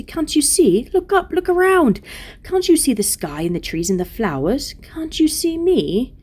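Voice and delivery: high, urgent pleading; tender-hearted Lucy, imploring. Acted. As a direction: beg them loudly to look around.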